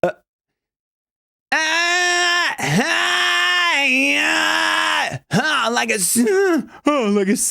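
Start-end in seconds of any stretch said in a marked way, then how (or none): 1.5-7.5 much higher pushed sighs and hey; sighing push demo. Shown as a demonstration. Coach showing the sigh-like cry. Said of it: "think of a sigh".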